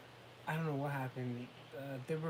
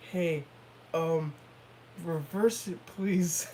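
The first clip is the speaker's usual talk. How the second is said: louder, halting, held-back request; forced calm, angry underneath; 5 dB louder, much slower than usual. Retold or imitated. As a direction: ask politely while holding in irritation. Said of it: "that, like, that angry mark".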